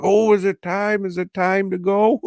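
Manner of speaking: dazed madman. Retold or imitated. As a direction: ask it like a clueless lunatic. Deaf Lee in his cell.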